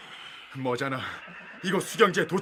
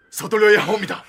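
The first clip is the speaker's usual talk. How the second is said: urgent plea; 6 semitones higher, 9 dB louder than usual. Acted. Servant urges general to flee.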